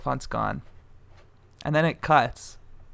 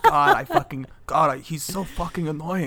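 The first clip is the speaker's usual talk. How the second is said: Ryan's uncle. Acted. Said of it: "He hates Ryan".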